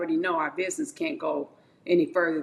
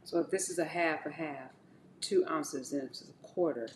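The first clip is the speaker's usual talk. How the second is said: muttering to herself; 4 semitones lower, 6 dB quieter than usual. Real, not acted. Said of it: "I'm in my own world right now".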